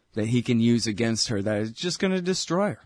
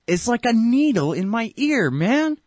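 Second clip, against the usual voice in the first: high, pinched and pained; grating complaint; 9 semitones higher, 4 dB louder than usual. Real, not acted. Host complaining about a voice, high pained squeal. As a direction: squeal it like it hurts your ear.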